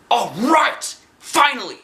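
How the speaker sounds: very high, loud whoop; thrilled cheer. A narrator's reading. Arlo cheering that fighting time has come. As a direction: celebrate at last.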